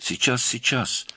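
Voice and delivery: high, flustered assurance; flustered haste. A narrator's reading. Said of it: "заторопилась тётя".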